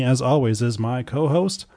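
usual speaking voice

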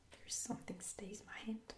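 quiet whisper, rising at the end; puzzled quiet rise. Shown as a demonstration. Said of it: "What does that mean?".

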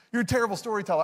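"terrible" tossed out fast with a laugh; laughing repeat. Shown as a demonstration. Pastor teasing the congregation, laughing and fast. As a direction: laugh it off quickly.

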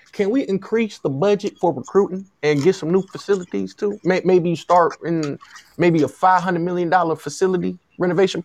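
eager, lightly put-on Southern wheedling; pretend Southern agent. Agent pushes USC for new facilities, in a light Southern voice. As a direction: stumble into another big ask, faintly Southern. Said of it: "This is my Southern voice".

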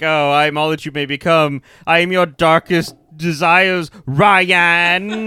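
lightly imitated melodramatic villain, slowing down; hint of villain's delivery. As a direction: draw out the name at the end like a hammy villain. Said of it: "just the way he says it".

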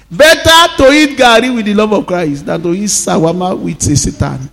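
full-voiced sermon delivery; preaching. Pastor preaching to his congregation, full voice.

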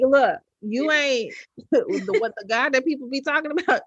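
mock skeptic. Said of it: "You like".

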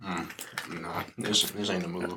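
talking through a mouthful; chewing while saying it; mouth full. Real, not acted. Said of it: "it is a miss for Steph".

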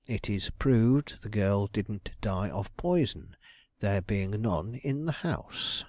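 slow, certain pronouncement; a detective feigning firm conviction; convinced. Acted. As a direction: state it as settled fact. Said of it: "in so convinced a tone".

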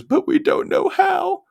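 high, slow and whiny; whiny Patty voice. Retold or imitated. Host voicing Patty to her husband, high and whiny. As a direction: play her as a helpless, pleading girl.

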